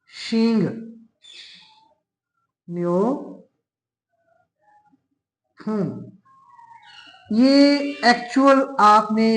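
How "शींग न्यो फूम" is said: शींग न्यो फूम spoken slowly and carefully, syllable by syllable; Korean pronunciation. Shown as a demonstration. Teacher to students, modelling the assimilated Korean pronunciation. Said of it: "इसको हम पढ़ेंगे".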